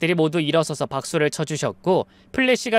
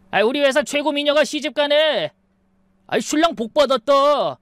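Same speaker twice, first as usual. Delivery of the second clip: teasing coworker; 8 semitones higher than usual. Acted. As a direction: tease her like an office colleague.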